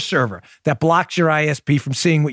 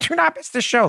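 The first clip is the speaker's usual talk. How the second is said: mock stern scolding tone, much higher. A host repeats his own show promo, deliberately imitating a scolding grandma pointing a finger at the listener, in a put-on scolding voice. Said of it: "like your grandma pointing a finger at you".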